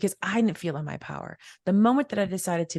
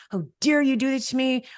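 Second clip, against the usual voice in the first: higher-pitched indignant challenge; indignant outburst; 8 semitones higher, 4 dB louder than usual. Retold or imitated. Upset customer to staff who raised prices, indignant outburst. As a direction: take it personally and confront them. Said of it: "I would yell at people".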